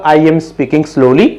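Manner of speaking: each word drawn out very slowly; slow the example right down to show the meaning; speaking slowly. Shown as a demonstration. Teacher saying the example sentence very slowly. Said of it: "जैसे कि मैं बोलूंगा".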